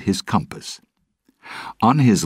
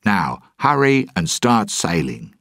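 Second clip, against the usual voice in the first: brisk, raised captain's order; 4 semitones higher, 4 dB louder than usual. Acted. Jack to Gibbs, a mild order. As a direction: cut off the questions and command. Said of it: "Jack ordered".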